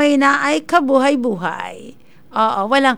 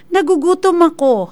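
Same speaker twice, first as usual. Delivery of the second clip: lifeless AI voice; 4 semitones higher than usual. Retold or imitated. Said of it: "lifeless masyado ba".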